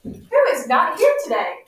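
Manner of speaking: "Who is not here today?" voiced as a demonstration question, pitch swinging; asking a question. Shown as a demonstration. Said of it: "So I'm asking a question".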